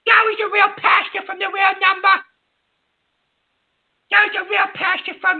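real anger, cutting off a former friend; hurt, angry dismissal of a caller; worked up and done with them; indignant. Real, not acted.

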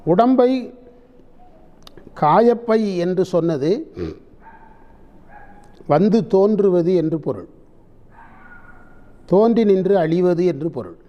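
measured dictation in formal Tamil, long pauses between phrases. Acted. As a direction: dictate the commentary phrase by phrase for people writing it down. Dictates the written commentary.

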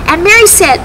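put-on gentle storyteller for kids; reading to children. A narrator's reading. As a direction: tell it like a Sunday school story. Telling Bible story to children.

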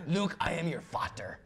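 a hint of a movie villain; lightly voiced dark lord line with a German "vater"; Darth Vader. Host joking about the German word, lightly voiced villain. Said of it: "Sounds like".

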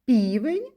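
first П of "півень" pushed out firmly; "півень" with a punched first consonant; first sound singled out. Shown as a demonstration. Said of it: "Перший звук у слові".

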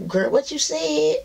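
high, sassy mock-country "Girl, what you said?"; hammed-up drawling skeptic. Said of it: "a lot of people be like".

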